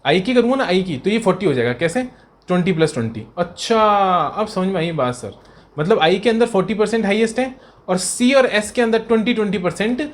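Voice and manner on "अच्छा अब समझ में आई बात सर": slow, put-on voice of a student who finally gets it; mock student catching on. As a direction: play the student, slowly. Teacher voices a student's reply.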